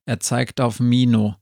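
ordinary delivery, nothing marked

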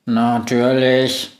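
even robot voice, slow in places; monotone robot. Acted. Robot assistant greeting the witch, monotone. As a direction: speak like a flat machine.

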